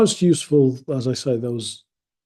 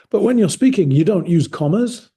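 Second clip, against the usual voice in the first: high, louder mock coworker complaint; mimicking coworker; 7 semitones higher, 6 dB louder than usual. Retelling a coworker's gripe about commas, mock high whine. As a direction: imitate a whiny colleague, high. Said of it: "And he used to say".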